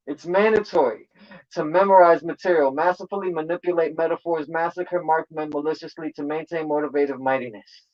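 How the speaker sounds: loose, tipsy bars. Real, not acted. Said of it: "I'm a little tipsy right now".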